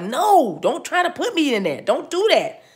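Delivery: voicing the camera. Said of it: "it was almost like".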